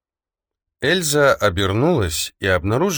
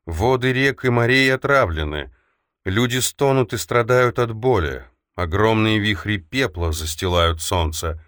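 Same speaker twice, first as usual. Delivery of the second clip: prophetic trance voice; 2 semitones higher than usual. Acted. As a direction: intone it like a seer in trance. Oracle prophecy of doom.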